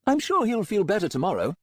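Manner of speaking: breezy, untroubled villain doctor; Melmoth voice. A narrator's reading.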